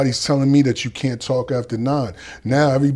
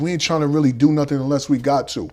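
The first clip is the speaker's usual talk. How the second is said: calm menace; 5 semitones higher than usual. Retold or imitated. Older inmates answer him.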